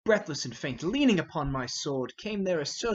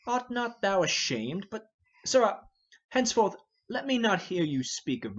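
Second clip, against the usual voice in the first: royal rebuke; 5 semitones higher than usual. Acted. King scolding the defiant Hotspur, stern and raised. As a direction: shame him, then bark his name.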